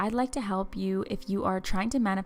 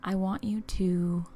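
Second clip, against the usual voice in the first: guided visualization. Acted. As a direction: ease the listener along, unhurried and hushed.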